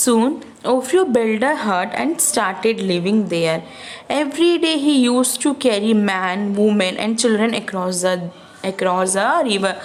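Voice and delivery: put-on slow, careful read-aloud for kids; slow storybook reading. A narrator's reading. Storyteller reading Ofrio's thought to children, slow and clear. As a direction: read each word out slowly to the children.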